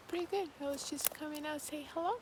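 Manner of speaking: chewing while talking; mouth full. Real, not acted. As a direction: talk through a mouthful. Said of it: "does not sound serious at all with my face here".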